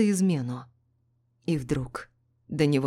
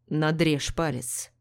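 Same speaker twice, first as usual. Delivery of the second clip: slow, calm command; slower than usual. Acted. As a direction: order it firmly. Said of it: "приказал он".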